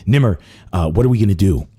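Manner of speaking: ordinary delivery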